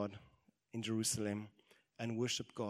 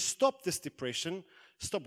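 loud, raised, slow command; stern self-rebuke; 6 semitones higher, 6 dB louder, slower than usual. Acted. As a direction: order yourself out of despair. David rebukes himself in the mirror.

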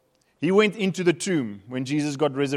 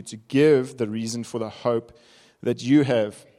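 scripture reading. Acted. Reads scripture passage aloud.

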